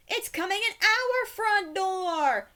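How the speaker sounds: high frantic yell of fright; panicked yell. A narrator's reading. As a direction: yell it in a terrified rush. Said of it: "yelled Timmy".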